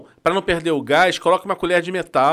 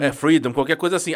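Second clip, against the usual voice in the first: ordinary delivery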